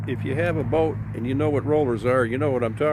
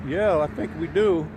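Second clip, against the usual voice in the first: retold innocent wife; 4 semitones higher than usual. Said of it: "pipes up and goes".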